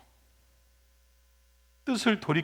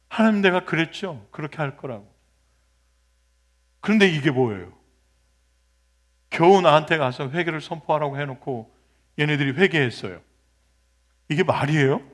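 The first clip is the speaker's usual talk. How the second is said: indignant complaint; 5 dB louder than usual. Acted. Jonah complaining to God.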